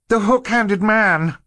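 high, loud, drawn-out cry of alarm; girl's shout. A narrator's reading. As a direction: shout it slowly as a shocked discovery. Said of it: "Violet shouted".

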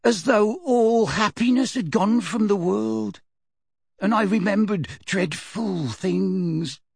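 high, slow voice about to break; shaking voice. Acted. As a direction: voice trembling, fading out. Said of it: "Her voice shook and died".

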